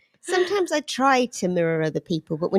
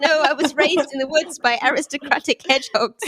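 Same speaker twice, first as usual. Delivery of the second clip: fancy hedgehog. Pretend. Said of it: "I'm very fancy".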